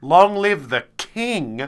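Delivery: slow ceremonial proclamation; herald's proclamation. Pretend. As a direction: draw it out like a royal herald.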